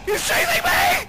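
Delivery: high shrieking panic, dragged out slowly; terrified high scream. Real, not acted. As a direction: scream it while running for your life. Monster chasing him.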